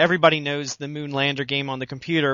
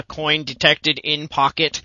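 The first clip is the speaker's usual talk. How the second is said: Berzerk robot voice; 2 semitones lower, slower than usual. Retold or imitated. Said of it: "your best Berserker impression".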